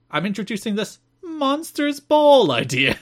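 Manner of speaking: high, slow mock wrestler promo; imitating Monty. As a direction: ham up the promo voice. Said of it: "Monty's like".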